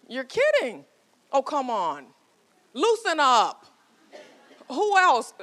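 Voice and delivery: high, loud coaxing call; audience call-out. Real, not acted. A speaker urging a shy audience to respond, calling out high and loud. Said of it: "coaxing the audience".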